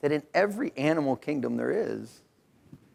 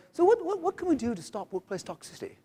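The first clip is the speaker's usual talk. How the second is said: mock British radio interviewer, starting very high; imitated British accent, pitch swooping down from high; 10 semitones higher than usual. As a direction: put on a BBC presenter's British accent. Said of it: "they all got funny accents".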